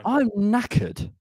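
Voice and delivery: slow, panting and worn out; out of breath. Real, not acted. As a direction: gasp it out, exhausted. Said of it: "I'm absolutely knackered".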